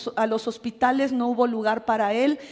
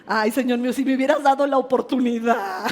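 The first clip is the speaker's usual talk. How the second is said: laughing through the words; 4 dB louder than usual. Real, not acted. Pastor jokes to the church about her husband, laughing. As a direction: laugh as you confess the joke.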